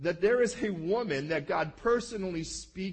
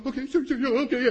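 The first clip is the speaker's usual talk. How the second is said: eager agreement; 7 semitones higher, 7 dB louder, faster than usual. Retold or imitated. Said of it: "He's going".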